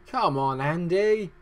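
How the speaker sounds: high, loud strained self-urging yell; a shrill, loud fired-up tennis shout; Andy Murray impression. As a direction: scream at yourself like a tennis player mid-match. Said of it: "It's my Andy Murray impression".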